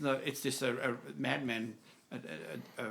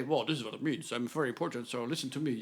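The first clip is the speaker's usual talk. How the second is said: mock self-important interpreter; 4 semitones lower, faster than usual. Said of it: "acting here, sort of".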